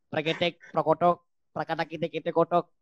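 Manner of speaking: gibberish alien language. Pretend. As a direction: babble nonsense like a space alien. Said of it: "saya kok pakai bahasa alien?". (suara alien)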